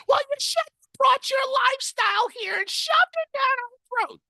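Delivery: put-on very high old lady shouting back; grandma yelling back at her grandson; shrill grandma. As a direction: screech it like an outraged grandmother.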